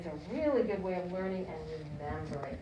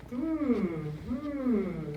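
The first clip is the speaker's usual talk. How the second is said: thoughtful hum; 4 dB louder than usual. Shown as a demonstration. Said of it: "This is what we're gonna learn".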